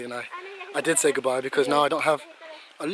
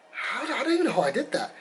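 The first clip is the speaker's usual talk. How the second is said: higher, a laugh running through it; real amused laugh, pitched way up; laughing in disbelief; 9 semitones higher than usual. Real, not acted. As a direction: laugh at how absurd it is. Disbelief at his injury.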